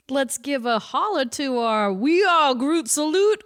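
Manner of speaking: slipping into a Cajun accent; a light, accidental Cajun lilt. Real, not acted. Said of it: "Why am I doing Cajun now?".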